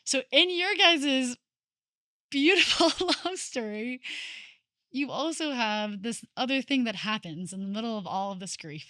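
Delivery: fighting tears while she speaks; holding back tears. Real, not acted. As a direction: voice rising and wavering with emotion, close to crying. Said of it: "I just can't even talk about without crying".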